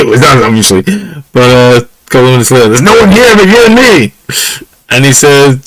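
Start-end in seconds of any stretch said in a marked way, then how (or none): 2.7-4.1 spooky prank shout. Retold or imitated. Friends taunt sleeping pal with ghostly shout. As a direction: howl it like a ghost in the dark.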